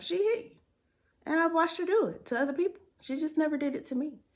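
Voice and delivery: emphatic. Real, not acted. Emphatic retelling of hitting.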